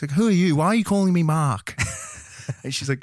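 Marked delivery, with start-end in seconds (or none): 0.1-1.8 confused Steven. Retold or imitated. Retelling Steven on phone.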